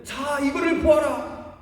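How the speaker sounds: showing off the calf to the crowd, hammed-up; proclaiming the calf as their god; mock proud idol-maker. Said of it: "그러면서 뭐라고 그랬냐면은".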